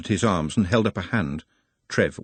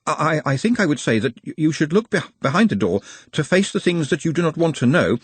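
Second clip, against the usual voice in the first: halting, stuttering a little; slight stutter; 7 semitones higher than usual. A narrator's reading. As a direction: stumble on the words. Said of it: "stuttering slightly".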